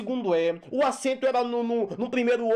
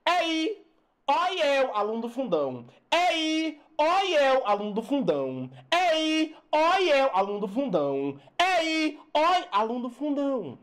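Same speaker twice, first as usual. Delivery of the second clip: put-on back-row kid calling out, each Ei pitched higher; back-row student calling out; 3 semitones higher than usual. Teacher mimicking the back-row kid calling out. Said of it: "Tem que ser aluno do fundão".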